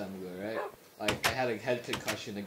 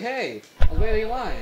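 raised, higher complaint; retold protest; 9 semitones higher, 10 dB louder than usual. Fifth grader protesting being skipped in line, retold protest. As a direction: call out the line-cutter.

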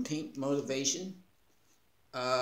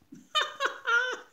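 high delighted laugh; 5 dB louder than usual. Real, not acted. Laughing at the funny gift, high delighted laugh. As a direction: burst of high squealing laughter.

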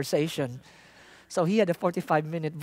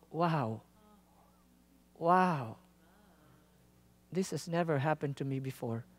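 awed wonder; 4 semitones lower, 6 dB quieter than usual. Retold or imitated. Driver stunned after prayer.

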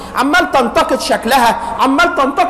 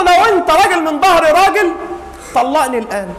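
angry wife; 3 semitones higher than usual. Acted. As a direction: throw the ultimatum hard. Angry wife demanding divorce.

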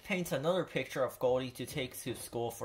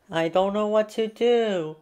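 Pete overwhelmed; 8 semitones higher, 9 dB louder than usual. A narrator's reading. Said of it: "he says to his mom".

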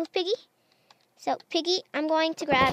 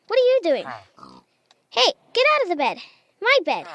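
indignant shout; 2 semitones higher, 6 dB louder, faster than usual. Real, not acted. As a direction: kick the intruder out of your bed. Villager in the player's bed.

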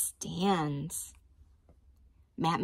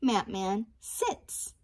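slow reading; slower than usual. Shown as a demonstration. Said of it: "Let's say opposites".

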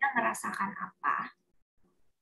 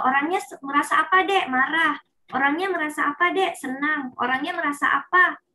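therapy card quiz; 5 semitones higher than usual. Shown as a demonstration. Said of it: "kalau kita lagi terapi nih".

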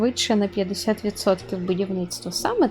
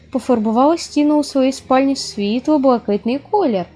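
loud, formal letter read for the client; reading a client's letter; 3 dB louder than usual. Acted. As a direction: read the request aloud like a pompous customer. Читає лист клієнта вголос. (голосно, урочисто читає лист клієнта)

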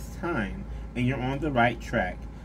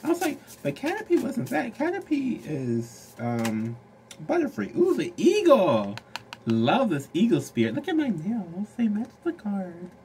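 high, excited squealing; 9 semitones higher than usual. Real, not acted. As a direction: gush like a thrilled fan.

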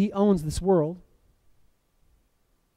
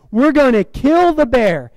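emphatic, slower and higher, punching each word; determined declaration; 6 semitones higher than usual. Retold or imitated. Preacher voicing the smart one to his scared friend, determined. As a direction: declare it with raised, deliberate resolve.

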